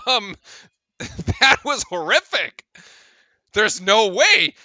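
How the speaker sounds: slow, laughing then flat no way; laughing disbelief. Real, not acted. Streamer reacting to the call, slow laughing disbelief. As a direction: savor the absurdity.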